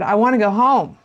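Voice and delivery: a mild imitation of a child's wail; mock child scream. Child on the plane wailing to go home, mock loud whine. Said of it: "and just starts screaming".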